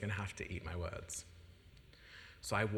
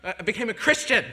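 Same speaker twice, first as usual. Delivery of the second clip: hesitant confession; 3 semitones higher than usual. Retold or imitated. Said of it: "It's like".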